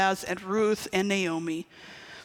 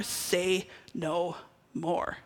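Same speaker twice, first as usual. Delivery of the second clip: softer and slower, conspiratorial; hushed aside; 3 semitones lower, 6 dB quieter, much slower than usual. Pretend. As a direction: drop it to a sly murmur. Repeated catchphrase, softer second take.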